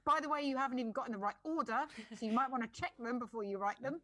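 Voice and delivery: scornful nitpicking rant. Real, not acted. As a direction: pick the post apart, indignant. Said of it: "Sorry, I'm ranting now".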